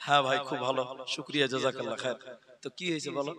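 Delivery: quiet, low, offhand reply; retelling his own soft reply to a fan; softly. Retold or imitated. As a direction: murmur it as if uninterested. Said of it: "তা আমি আস্তে আস্তে বলছি".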